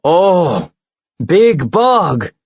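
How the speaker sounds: a hint of a big bird sizing up prey; giant eagle voice. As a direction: eagle eyeing the monster below. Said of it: "the eagle commented".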